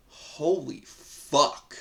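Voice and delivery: alarmed. Retold or imitated. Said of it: "I'm more of a".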